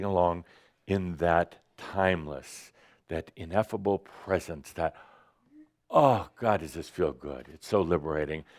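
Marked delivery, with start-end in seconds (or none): 5.9-8.4 blissful relief. Acted. Acts out floating bliss.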